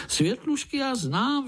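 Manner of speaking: very high eager cry; high childish exclamation; excited outburst. Acted. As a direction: blurt it out proudly. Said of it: "vykřikl Pája".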